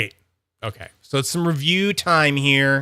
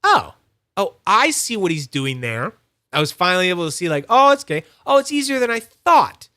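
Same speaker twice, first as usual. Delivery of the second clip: retold realization; 4 semitones higher, 4 dB louder than usual. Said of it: "I went".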